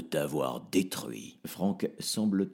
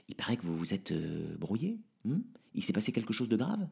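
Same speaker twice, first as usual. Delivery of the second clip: softer, murmured aside in the ear; murmuring; 6 dB quieter, faster than usual. Acted. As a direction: murmure à l'oreille de Merlin. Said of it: "Franck murmure à l'oreille de Merlin".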